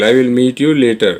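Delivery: slow model sentence. Shown as a demonstration. Teacher modelling the English line for Hindi learners, very slow. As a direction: say each word slowly and clearly. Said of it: "teacher repeats model sentence".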